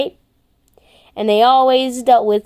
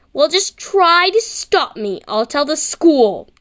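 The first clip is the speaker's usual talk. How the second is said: high, slow, prim threat; tattletale boy; 5 semitones higher, slower than usual. Acted. Boy threatening to tell the school, slow and high.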